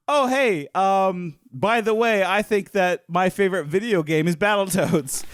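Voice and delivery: high, stiff small talk; awkward alien. Retold or imitated. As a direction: fake casual like a bad human. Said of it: "you're just like".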